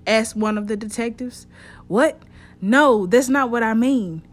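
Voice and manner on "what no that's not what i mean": agitated protest. Acted. Trey agitated under questioning.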